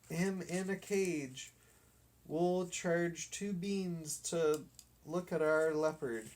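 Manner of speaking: high, eager chase calls; rally the gang to grab him; excited boys. Acted. Boys urge each other to catch the dog, excited and high.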